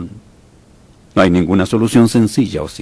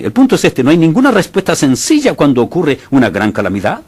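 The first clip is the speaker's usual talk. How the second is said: louder and higher, pressing the point; emphatic preaching; 8 semitones higher, 4 dB louder than usual. Real, not acted. Preacher to congregation, emphatic raised voice. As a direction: drive the point home to the congregation.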